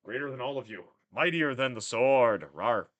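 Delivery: lightly voiced monster boast with loud bursts; world eater. DM boasting as the biggest world eater, mock monster.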